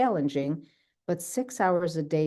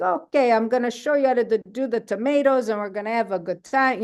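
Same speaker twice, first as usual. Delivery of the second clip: much higher and louder, eager and bubbly; excited mom; 6 semitones higher, 3 dB louder than usual. Retold or imitated. Mom agreeing to teach tomato canning, excited. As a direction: burst in, thrilled to teach. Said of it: "So she got into it".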